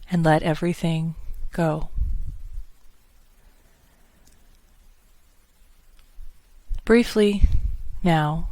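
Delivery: calm, measured meditation voice with long pauses; unhurried, soothing meditation instruction; guided meditation. Acted. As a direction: gently guide listeners into breath and body, leaving space between phrases.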